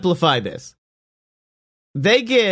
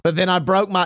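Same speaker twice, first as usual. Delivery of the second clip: panicked rush of excuses, pitched up; freaking out; 6 semitones higher, faster than usual. Retold or imitated. Boomerang panicking to the bandit captain he ghosted. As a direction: babble fast and high like he's been caught. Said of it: "he just kinda freaks out".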